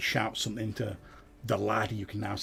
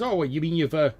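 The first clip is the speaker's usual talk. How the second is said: higher, louder sly farmer sizing up strangers; cagey farmer, raised voice; wary farmer; 4 semitones higher, 6 dB louder than usual. Acted. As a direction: draw it out like a suspicious old farmer.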